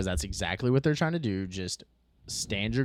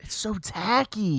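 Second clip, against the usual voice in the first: disgusted drawl; 11 semitones higher, 4 dB louder, slower than usual. Real, not acted. Disgust at people filming scenes.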